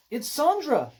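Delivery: high-pitched fan's shriek, storytime volume; sudden scream. A narrator's reading. Bystander spotting a soap star, screaming. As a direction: squeal it out in sudden excitement. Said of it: "somebody suddenly screamed".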